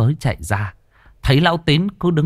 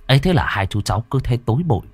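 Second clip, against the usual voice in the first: plain reading voice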